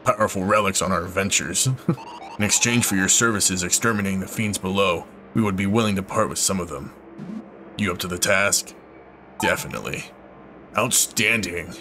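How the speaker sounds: lightly voiced NPC. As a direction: read the line like a polite guild leader. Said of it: "I'm just gonna keep his voice".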